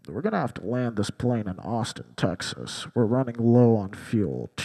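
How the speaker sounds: deadpan it like a casual captain; pilot announcement. Retold or imitated. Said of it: "pilot gets on the intercom".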